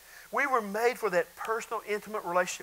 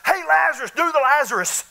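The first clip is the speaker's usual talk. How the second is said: high, loud party shout; rowdy, hammed-up yell; playful holler; 9 semitones higher, 8 dB louder than usual. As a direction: holler a request across a wedding reception. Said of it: "somebody was hollering to Lazarus".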